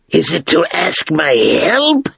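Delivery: slow, drawn-out, dry dragon voice; great dry voice of an ancient dragon. Acted. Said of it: "when the dragon spoke".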